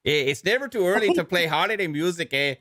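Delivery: mock Canadian accent, eh tacked on; hammed-up Canadian ad read; playful fake Canadian accent. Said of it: "where we talk like this".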